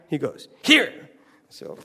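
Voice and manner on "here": put-on high, loud broken-English Korean accent; Korean director accent. Korean director offers his hat for the truck, in a put-on Korean accent. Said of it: "a little Korean man named James Dean".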